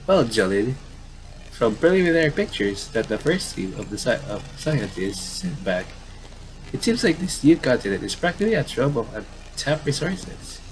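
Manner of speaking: upbeat field reporter pitching the news; lightly voiced newscaster. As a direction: sell it like an eager correspondent.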